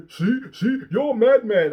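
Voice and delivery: high, loud sing-song taunt of "you're mad"; mock taunting commenter. Mocking the online commenters, a high loud taunt. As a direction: jeer back at them like a kid on the playground.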